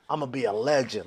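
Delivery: low, soft stoned musing; retold self-important stoned thought. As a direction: drop to a private, dazed murmur. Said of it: "that's how my high brain was".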